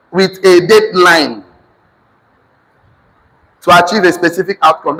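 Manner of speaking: measured, emphatic dictation in short chunks; dictation to class. Real, not acted. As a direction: dictate firmly, phrase by phrase, for note-takers.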